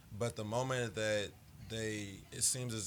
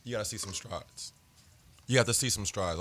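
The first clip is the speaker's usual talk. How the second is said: strained, fading voice; losing voice; 6 dB louder than usual. Real, not acted. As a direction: push through a worn-out voice. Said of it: "I'm losing my voice".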